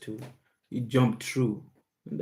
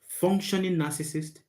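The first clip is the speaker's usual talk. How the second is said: "functioning" pitched up and set apart; stress on FUNCTIONING; 6 semitones higher than usual. Real, not acted. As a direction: lift "functioning" clearly higher to mark the term. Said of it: "emphasis on the functioning".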